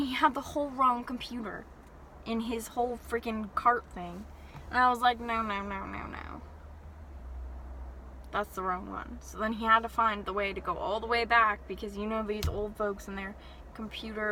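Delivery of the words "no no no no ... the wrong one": quiet no no. Retold or imitated. Gently stopping old man's mistake.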